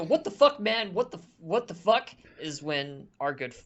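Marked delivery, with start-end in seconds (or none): 0.0-2.1 high, loud startled yell; shouting. Acted. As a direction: shout it in disbelief. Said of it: "as he's shouting".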